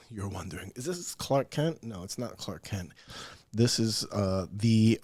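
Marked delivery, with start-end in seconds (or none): 0.1-2.9 whispered aside. Acted. Joking aside about his glasses.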